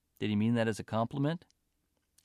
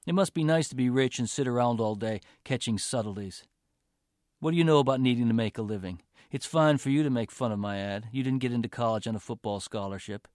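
fast, louder sarcastic jabs; sarcastic rant; 3 dB louder than usual. Acted. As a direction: needle her with growing anger. Boyfriend's sarcastic resentful rant.

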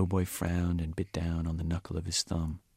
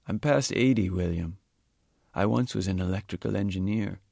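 put-on an elderly man surprised by the odd accusation; puzzled old Sikh; 5 dB louder than usual. Old Sikh answers Lowboy.

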